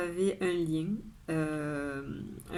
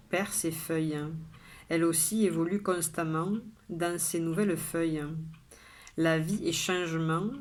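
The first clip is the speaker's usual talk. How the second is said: measured poem reading, pausing after each line; poem recitation. Acted. Poet sharing today's poem with viewers, measured recitation. Reads the poem a third time.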